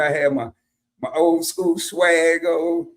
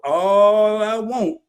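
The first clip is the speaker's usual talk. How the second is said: irritated demand; 4 semitones higher, 5 dB louder, much slower than usual. Retold or imitated. Drive-thru argument, slow, emphatic.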